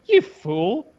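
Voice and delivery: high, slow, hammed-up movie hero; mock heroic. Butch answering his partner on the cliff, hammed-up high slow hero voice. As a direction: ham up a cliffside action line.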